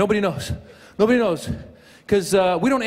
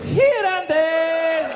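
vague dodge; 8 semitones higher, much slower than usual. Retold or imitated. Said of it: "Where do you do it".

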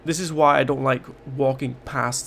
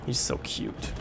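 1 sarcastic; 7 dB quieter, slower than usual. Real, not acted. Sarcastic about tyrant.

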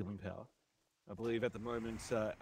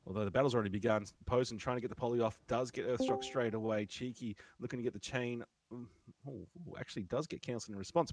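quick live play-by-play commentary; esports caster; faster than usual. Acted. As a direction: call the duel as it happens.

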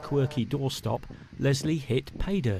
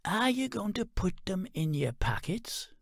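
mock pity; 7 semitones higher, 4 dB quieter than usual. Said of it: "made a sad face".

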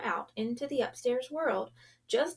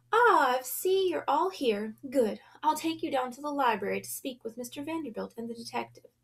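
lady of the house; 3 semitones higher than usual. Acted. Lady of the house greets guests.

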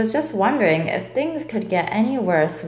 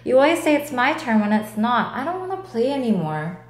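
cross; 2 semitones higher, faster than usual. Acted. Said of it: "said Doug crossly".

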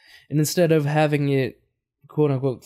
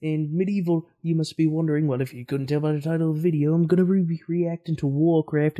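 put-on British accent, pitched up; 3 semitones higher than usual. Host introducing a medieval movie reaction, British accent. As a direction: greet viewers in a mock British accent. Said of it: "I'm speaking in a British accent".

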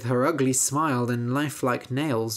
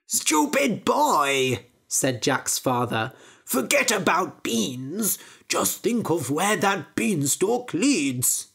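put-on scornful old father; slower than usual. Father scolding Jack about the beanstalk, slow and scornful. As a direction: sneer at the boy's small idea.

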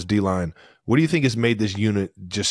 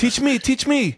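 squeaky pleading voice; teasing falsetto plea; high mock plea; slower than usual.

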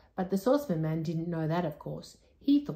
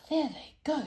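higher, gleeful; in delight; 9 semitones higher than usual. Acted. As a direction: say it with glee. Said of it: "said Moonface in delight".

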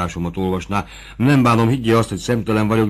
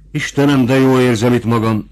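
joyful exclamation; 4 semitones higher, 6 dB louder than usual. A narrator's reading. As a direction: cry out in relief, higher and louder. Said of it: "kiáltott fel Fabrizio". (örömteli felkiáltás)

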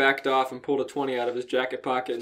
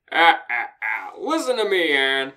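hearty exclamation; 2 semitones higher, 6 dB louder than usual. Acted. Mare's hearty opening line.

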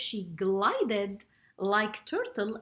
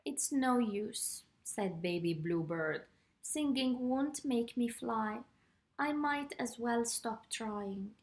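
dejected; 5 dB quieter than usual. Acted. Baby Bluebird gives up, dejected.

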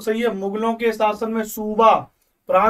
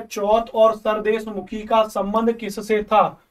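सवाल को धीरे-धीरे, हर शब्द अलग करके पढ़ना; slow, deliberate reading of the quiz question; slower than usual. Shown as a demonstration. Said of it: "अगला देखो कितना बढ़िया सवाल है". (धीमे, ठहर-ठहरकर प्रश्न पढ़ना)

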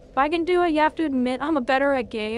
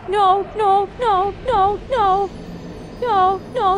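loud, high repeated no's; desperate denial; 5 semitones higher, 4 dB louder, slower than usual. Real, not acted. Gamer refusing to accept the loss, desperate loud denial. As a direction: plead against what just happened.

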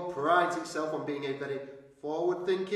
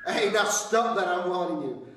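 stern telling off; 4 dB louder than usual. Acted. Scolding the hall crowd.

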